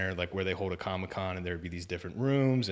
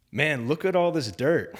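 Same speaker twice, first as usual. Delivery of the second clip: preacher's opening line; 7 semitones higher, 8 dB louder, slower than usual. Retold or imitated. Quoting the preacher on stage.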